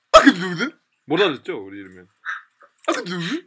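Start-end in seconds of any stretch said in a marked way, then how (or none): 0.1-0.8 loud "I k' DO that", can barely there; stress on DO. Shown as a demonstration. Teacher showing students what is hard to catch, stressed "do". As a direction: punch "do" and reduce "can" to "k'". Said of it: "덧발음 이렇게 하죠".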